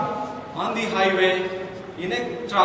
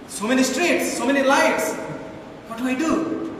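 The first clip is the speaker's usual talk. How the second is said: mock panic; 6 semitones higher than usual. Panicked inner voice.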